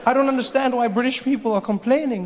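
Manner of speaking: ordinary delivery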